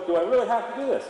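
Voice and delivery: a mildly whiny horse; reluctant horse. Retold or imitated. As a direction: voice the mare's grumbling protest. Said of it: "she's going".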